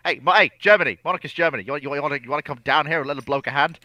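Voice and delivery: high, loud hail for help; calling out. Acted. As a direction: call across for a hand. Calling out to Germany.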